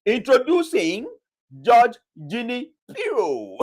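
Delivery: slow, drawn-out announcer build-up; grand introduction. Shown as a demonstration. Host unveiling the next clip to viewers, slow showman announcement. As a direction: present her like a host bringing on the star guest. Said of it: "let me do it right".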